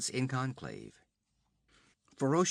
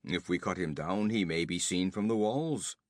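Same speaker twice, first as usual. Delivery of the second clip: objecting; 3 semitones lower than usual. Acted. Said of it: "objected one of the nomads".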